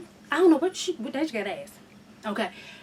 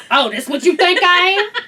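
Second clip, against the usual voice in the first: sassy attitude; 3 semitones higher, 4 dB louder than usual. Retold or imitated. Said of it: "too much attitude in my voice".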